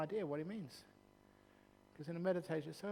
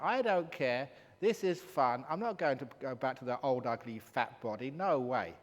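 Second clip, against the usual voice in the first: louder, stubborn and gleeful; loud defiant refusal; 6 dB louder than usual. Retold or imitated. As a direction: refuse outright, enjoying yourself. Woman refusing the spirit.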